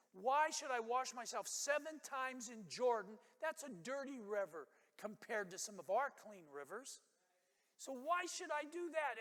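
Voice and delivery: high, loud outraged protest; furious rant. Retold or imitated. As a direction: spit it out like an insulted general. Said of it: "it says he was furious".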